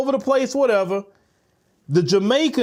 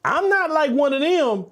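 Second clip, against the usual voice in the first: higher, pleading mock voice, slowing on "I's with you"; higher mock plea to the folks in charge; mocking her plea; 5 semitones higher than usual. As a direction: parody someone begging to be spared. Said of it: "To say".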